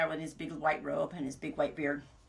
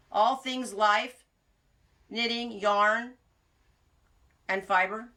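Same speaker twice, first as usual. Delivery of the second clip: slow slogan; 3 semitones higher, 4 dB louder, much slower than usual. Real, not acted. Slogan read slowly.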